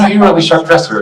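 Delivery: chuckling through the compliment; laughing while quoting himself. Retold or imitated. To a stranger in an identical outfit, said laughing. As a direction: let the laugh spill into the words.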